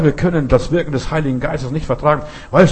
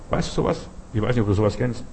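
whispered aside; 6 dB quieter, faster than usual. Real, not acted. Preacher drops to aside.

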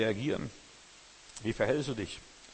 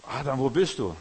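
calling out; 6 dB louder than usual. Acted. God calls Adam again.

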